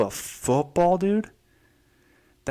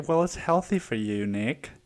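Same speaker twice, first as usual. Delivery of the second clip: mom voice. Retold or imitated. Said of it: "It's like".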